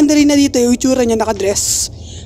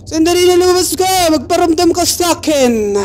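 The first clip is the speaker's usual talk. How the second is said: calling out; 4 semitones higher than usual. Pretend. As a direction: call her out of hiding. Calling out to Slenderina in game. (tawag nang malakas)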